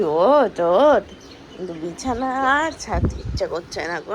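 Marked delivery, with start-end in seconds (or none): 0.0-1.0 louder wake-up call. Real, not acted. Mother calling the sleeping kids to wake up. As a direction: call them to get up. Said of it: "বলছি".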